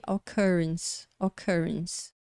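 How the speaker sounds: occurrence with a short uh in stressed CUR; som próximo do A. Shown as a demonstration. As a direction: say occurrence, middle vowel like a muted a. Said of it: "Esse som representado pela letra V". (occurrence com som próximo do A português)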